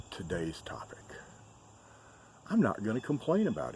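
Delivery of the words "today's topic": whispering. Real, not acted. Whispered topic announcement.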